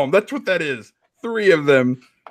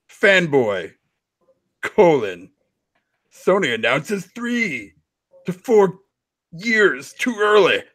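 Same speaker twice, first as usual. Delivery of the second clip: dramatic reading. Acted. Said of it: "dramatic readings of Console Warrior tweets".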